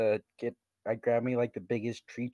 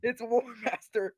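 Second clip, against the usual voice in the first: higher, insistent repeat; excited exclamation; 8 semitones higher, 3 dB quieter than usual. Real, not acted. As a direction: call it out again, higher. Player excitedly names the culprit.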